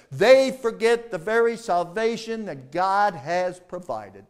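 "forget" pressed hard; emphasis on forget. Shown as a demonstration. Preacher warning his church, pressing on forget. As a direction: lean on the word forget. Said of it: "let me put emphasis on forget".

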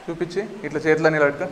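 ordinary delivery, nothing marked

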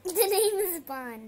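serious Bond line. Acted. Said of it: "James Bond is a serious guy".

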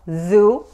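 "zoo" with a buzzing voiced Z. Shown as a demonstration. Teacher demonstrating to Spanish speakers: "zoo" with a buzzing Z. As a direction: start "zoo" on a buzzing Z you can feel vibrate. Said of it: "es con la Z".

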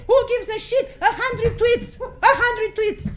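real outrage, half laughing; outraged. Real, not acted. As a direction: hammer it home in disgust. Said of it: "I'm sorry I'm outraged".

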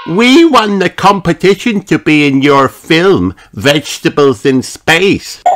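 put-on high, eager child character; Peppa. Peppa tells film stars about the competition, eager. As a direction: announce it proudly in a high voice.

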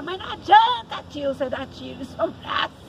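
protesting. Retold or imitated. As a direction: cry out against it. Leco protests to his uncle.

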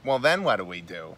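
lightly voiced New York Jewish whine; a hint of a New York Jewish kvetch; New York Jewish accent. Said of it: "this New York Jewish voice".

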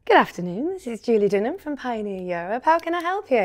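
polite posh phone greeting; telephone voice. Shown as a demonstration. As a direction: answer like a receptionist. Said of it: "when I put my telephone voice on".

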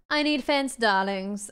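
mock old Hollywood transatlantic accent. Gamer hamming a transatlantic accent at viewers. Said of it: "This is a transatlantic accent, darlings".

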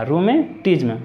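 "rheumatism" said with the H left out; silent H in "rheumatism". Shown as a demonstration. Teacher warning students about pronunciation, H silent in "rheumatism". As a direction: drop the H, start "rheumatism" on a plain R. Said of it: "लेकिन एच silent है हमारा".

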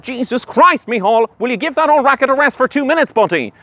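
exasperated. Acted. Exasperated at ranting colleague.

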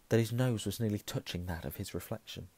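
ordinary delivery, nothing marked

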